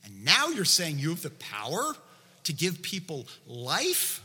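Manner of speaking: acted incredulous objection. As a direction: object in mild mock disbelief. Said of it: "the next thought of the religious leaders was probably something like this".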